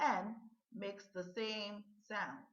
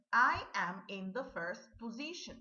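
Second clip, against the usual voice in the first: model sentence; 4 dB louder than usual. Shown as a demonstration. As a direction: read clearly and a little loud, stress on I. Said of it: "listen and repeat these sentences".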